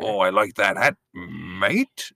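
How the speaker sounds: Australian accent, the tune sinking low on "mate"; Australian accent, let "hat" and "mate" fall; Australian accent, downward inflection. Shown as a demonstration. Copying the co-host's Australian accent, low and falling. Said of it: "You're right, it is a downward inflection".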